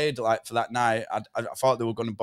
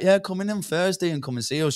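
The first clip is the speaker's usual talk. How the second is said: put-on elderly lady; 7 semitones higher than usual. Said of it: "she was a bit of an elderly lady".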